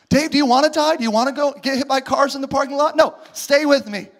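sigh, then sharp scolding questions; tired father scolding Dave; exasperated parent. Acted. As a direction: nag the runaway kid.

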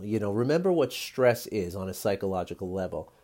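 talking around a sip of tea; words between sips of hot tea; while sipping a drink. Real, not acted. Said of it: "I'm just drinking a little tea".

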